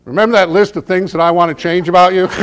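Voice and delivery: spring it on him brightly; wife's gotcha. Retold or imitated. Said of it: "she wakes me up and she says".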